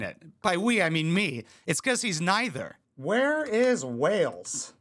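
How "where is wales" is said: very slow, spelling it out; drawn-out search-bar reading; slow typed query. Shown as a demonstration. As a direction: read it out slowly as you type. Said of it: "dumbest thing I've ever typed into my search bar".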